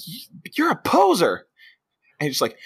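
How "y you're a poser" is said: higher taunting voice; mock taunt. Friend calls him out, higher mock taunt. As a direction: jeer at him. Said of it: "is just like".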